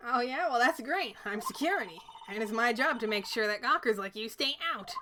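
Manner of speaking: hint of a crotchety guard; cranky old lady. Old security guard warns off gawkers, cranky. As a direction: shoo them off like a crabby old woman. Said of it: "my cranky lady voice".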